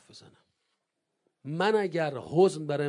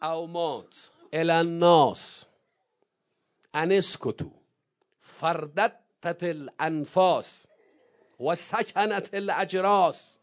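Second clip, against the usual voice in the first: slow, stretched Arabic recitation; drawn out; 4 dB louder, slower than usual. Shown as a demonstration. Preacher slowly reciting Zeinab's sermon, drawn out. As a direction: stretch every word so its weight lands.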